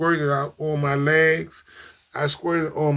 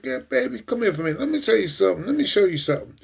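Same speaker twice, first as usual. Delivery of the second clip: higher-pitched, playful come-here call; coaxing a girlfriend over; 5 semitones higher, faster than usual. Pretend. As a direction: act out sweet-talking your girl over. Voicing viewer calling girlfriend over.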